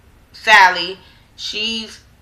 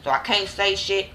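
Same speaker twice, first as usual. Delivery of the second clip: much softer, muttered under the breath; inner thought; 2 semitones lower, 9 dB quieter than usual. Retold or imitated. Fitz biting his tongue in front of her father, softly. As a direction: mutter it to yourself, holding back.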